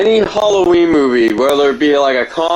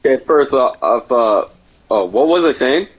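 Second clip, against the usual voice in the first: high and foggy, losing the thread; stoner; 3 semitones lower than usual. Real, not acted. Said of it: "I'm really high right now".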